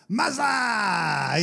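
shouted name; called name. Shown as a demonstration. Jesus calling out to Mary, a playful shout. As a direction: call the name out loud. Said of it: "how did he say Mary".

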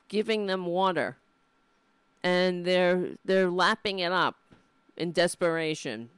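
real impassioned plea, rising in force; getting worked up. Real, not acted. Pleading to viewers for animals going to slaughter, worked up. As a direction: plead hard for the suffering animals. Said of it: "Okay, I'm getting".

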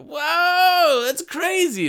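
high-pitched mock shock at the price; shocked whoa. Shopper at the register reacting to the bill, high mock shock. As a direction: gasp it out like the total floored you. Customer hears a huge grocery total.

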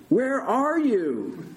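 slow, high shouted question. A narrator's reading. Big Bird tests patient's orientation, shouting. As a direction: quiz someone at full volume. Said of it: "Mister Stoltz shouted".

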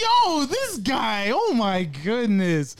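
reaction video. Real, not acted. Exasperated at opponent's pause.

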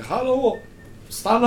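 shouting after someone. Acted. Pursuers running after the car, shouting. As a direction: call out to stop a fleeing car. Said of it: "och liksom och skriker".

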